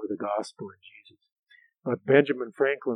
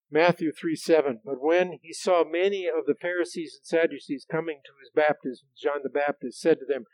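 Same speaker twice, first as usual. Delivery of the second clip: louder, raised public reading; scripture reading; 4 semitones higher, 5 dB louder than usual. Acted. Preacher reading from Matthew to the congregation, emphatic scripture reading. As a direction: announce and read the passage emphatically.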